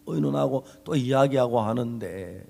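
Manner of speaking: slow, weighty sermon delivery; preaching. Acted. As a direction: lean into each phrase from the pulpit. Pastor preaching, slowed. (천천히 힘주어 설교하는 목소리)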